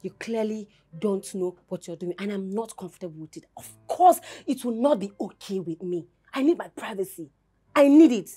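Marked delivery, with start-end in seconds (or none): 3.6-8.3 upset insistence. Acted. Wife upset, demands privacy from husband.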